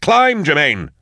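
high, urgent urging; yelled command. A narrator's reading. Drusha urges Germaine up the flue, urgent yell. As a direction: yell to drive her upward. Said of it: "he yelled".

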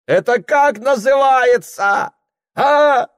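very high, loud, slow shout; furious demand. Acted. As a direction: shove the evidence at them.

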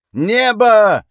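gruff barked parade order. A narrator's reading. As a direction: bark it like a drill command. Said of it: "рявкнул Центурион Дан".

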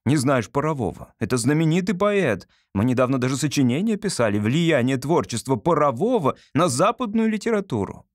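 lightly voiced boy scolding his father; indignant son. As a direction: put Papa right, indignant and sure of yourself.

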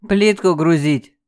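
slow, lazy and offhand. Acted. Thug lazily orders loading the tiles, unbothered. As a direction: toss it off lazily. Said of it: "лениво произнёс Олег".

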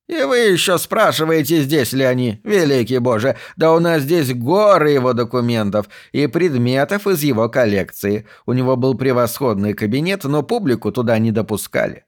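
lightly voiced astonished old archivist; lively, mildly theatrical amazement; incredulous exclamation. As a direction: exclaim as if the question were absurd. Archivist astonished at her question.

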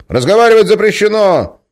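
loud, high forbidding yell; shouting. Acted. Guard yells that talking is forbidden. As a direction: shut them up.

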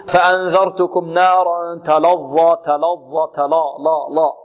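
dark, heavy 'lo' for the lam of تلظى; heavy lam error. Shown as a demonstration. Teacher imitating readers who wrongly thicken the lam, heavy lam. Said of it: "ربما البعض يفخم اللام".

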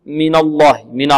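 noon thickened in "من الله"; heavy noon. Shown as a demonstration. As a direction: say "من الله" with a wrongly heavy, dark na. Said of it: "بعض الطلاب يفخم النون".

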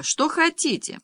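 put-on high quavering old woman. A narrator's reading. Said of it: "дребезжала трубка".

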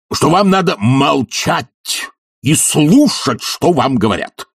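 high, heated scolding; thundering lecture. Acted. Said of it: "гремел Филипп Филиппович".

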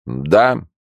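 sleepy slurred monotone; drowsy drunk monotone. A narrator's reading. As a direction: answer half asleep, flat. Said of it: "отвечал монотонным голосом, как сквозь сон".

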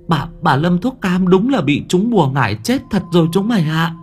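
halting start, climbing to high-pitched dread; frightened child reporting horror to his friends; terrified boy. A narrator's reading. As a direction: stammer the news out, voice pushed high. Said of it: "mặt nó tái mét".

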